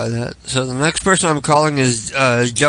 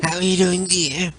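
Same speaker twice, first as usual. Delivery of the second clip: Saul voice; 6 semitones higher than usual. Pretend. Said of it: "I'm gonna do Saul".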